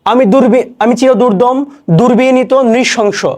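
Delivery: defiant recited line; poem recitation. Shown as a demonstration. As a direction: proclaim it defiantly.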